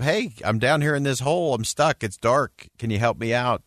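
retold call for help. Man stuck in a hole calls up to a clergyman, mild mock shout. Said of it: "the guy shouts up".

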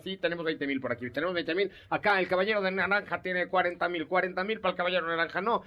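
lightly voiced auction caller; auctioneer. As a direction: rattle off bids like an auctioneer. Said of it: "hay un cuate que va cantando la subasta".

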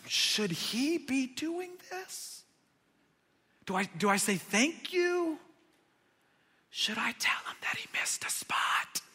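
half-whispered bewildered thoughts; hushed inner thoughts. Retold or imitated. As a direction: voice the disciples' stunned private doubts. Disciples' inner thoughts, voiced.

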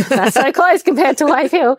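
giggled high through the words; laughing. Real, not acted. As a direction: laugh at your own joke as you speak. Laughing at her own irony.

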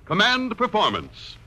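booming radio announcer intro. Acted. Announcer opening the radio show to troops, booming. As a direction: proclaim the show title over music.

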